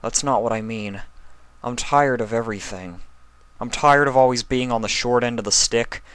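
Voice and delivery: lightly voiced young dragon, weary and bitter; a hint of a tired, hurt boy; Spike voice.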